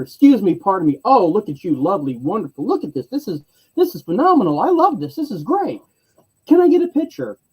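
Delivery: high, gushing, overexcited flattery; squealing admirer piling on compliments; gushing fan. Retold or imitated. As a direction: lay the fanboy gushing on thick to stall him. Gushing fan distracting bounty hunter.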